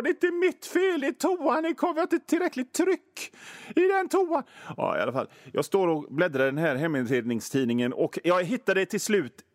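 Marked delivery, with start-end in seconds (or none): 0.0-4.4 much higher, whiny protest voice; pleading like a scolded kid, pitched way up; whiny high excuse. Retold or imitated. Excuses himself over the toilet.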